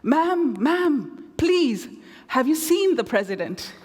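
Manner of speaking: put-on a bodyguard pleading in an Afrikaner accent; thick Afrikaner accent. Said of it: "in a thick Afrikaner accent".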